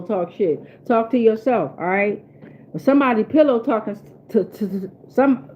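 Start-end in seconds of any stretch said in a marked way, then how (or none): 2.7-5.5 tripping over the words; stumbling stutter, words stuck. Real, not acted. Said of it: "I'm stuttering".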